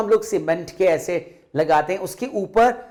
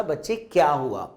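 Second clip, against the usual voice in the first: lovingly asking; 3 semitones lower than usual. Acted. Mother tenderly asks her upset daughter what is wrong. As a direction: ask the child gently, with love. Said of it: "Neena की मम्मा ने प्यार से उससे पूछा".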